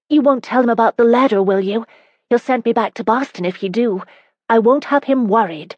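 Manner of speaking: insist, raising the voice; emphatic. A narrator's reading. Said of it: "Carolyn stated emphatically".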